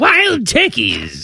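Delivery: slow, high put-on cry; comic callback. Host revives the turkey joke for cohost, comic cry. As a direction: stretch it out in a silly high voice.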